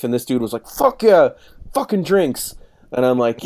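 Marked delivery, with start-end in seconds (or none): 0.7-2.6 put-on high, rowdy old-timer voice, cheering; imitating old barfly. Old drinker cheering the young writer, high rowdy voice. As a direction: whoop it up like a drunk old cat.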